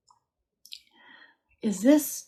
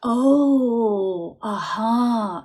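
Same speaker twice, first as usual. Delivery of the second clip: a bright, higher "oh, aha" of discovery; sudden realization; 4 semitones higher, 5 dB louder, much slower than usual. Retold or imitated. Medium relaying the dad's sudden insight, excited realization. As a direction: voice the dad's lightbulb moment, louder. I get a feeling of.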